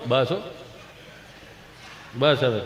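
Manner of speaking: low, soft hushing; soothing father. Acted. Father hushing crying child, low and soft. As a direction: gently hush the child.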